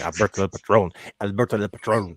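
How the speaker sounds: lightly put-on Spanish accent on the name; mock Spanish accent. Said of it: "That's how I say his name".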